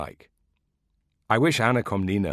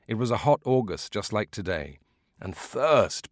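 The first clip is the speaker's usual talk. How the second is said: put-on higher, lively old man reliving battle; old veteran reliving the battle for his listeners; old veteran storyteller; 4 semitones higher than usual. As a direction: paint the chaos like an old soldier. Old beekeeper tells war story.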